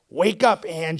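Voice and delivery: spook your sister awake with fake urgency; scary and urgent. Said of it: "making her voice scary and urgent".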